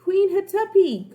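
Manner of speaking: high, loud call into the dark. Acted. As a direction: call for the queen. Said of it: "called Annie".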